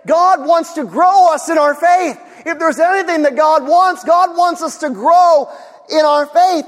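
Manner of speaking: emphatic preaching. Real, not acted. Preacher builds to main point.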